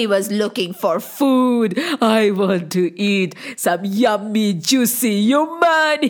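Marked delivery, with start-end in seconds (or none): 2.0-6.0 hungry ogre. Acted. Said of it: "he said".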